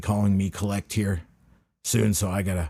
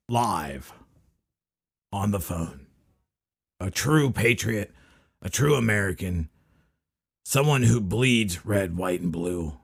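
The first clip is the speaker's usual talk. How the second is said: announcer voice; slower than usual. Acted. Grand host introduction.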